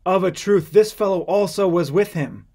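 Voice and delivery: assured and emphatic; confident affirmation. Acted. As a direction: insist with full confidence. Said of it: "confidently affirmed".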